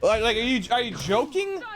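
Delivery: rising frustrated yell; angry disbelief. Real, not acted. Game failure, raging.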